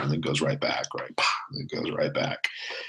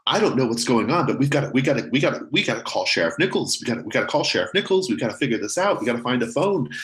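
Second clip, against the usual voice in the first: higher panicked mother's voice; panicked mom; 7 semitones higher, faster than usual. Acted. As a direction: gabble it out as a frightened mother in the hallway. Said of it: "you hear her saying".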